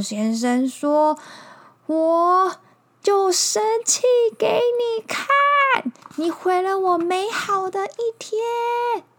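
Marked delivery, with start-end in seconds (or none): 1.9-9.0 loud, high angry bear; furious bear. Acted. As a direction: yell it like a mad bear.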